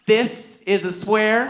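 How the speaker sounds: slow, halting hint of a child informing Dad; drawn-out words, a touch of little girl; lightly voiced daughter. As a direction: lightly imitate a kid sharing a discovery. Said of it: "And then she said to me".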